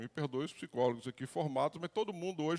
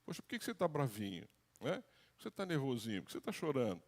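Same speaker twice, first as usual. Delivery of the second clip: softer, coaxing parent voice, a touch mocking; mock soft-talking parent; 6 dB quieter than usual. Parent coaxing an upset child, softer and mocking. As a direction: parody the gentle talk-it-out parent. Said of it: "apenas com diálogo".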